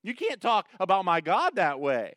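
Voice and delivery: loud, high indignant rebuke; offended. Acted. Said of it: "He's offended that this Philistine".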